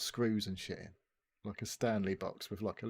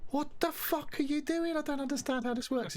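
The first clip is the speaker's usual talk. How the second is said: baffled amazement. Retold or imitated. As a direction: sound totally baffled by the trick. Reacting to vanished card reappearing.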